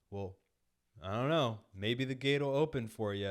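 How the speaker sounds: lightly voiced sassy reply; a hint of a snide neighbour. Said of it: "they were so sassy".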